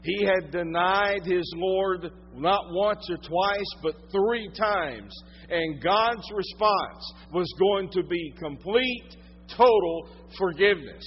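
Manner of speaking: loud, slow, driving sermon delivery; preaching at full force. Acted. Preacher telling the congregation of Peter's denial, full-force preaching. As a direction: pour it out from the pulpit.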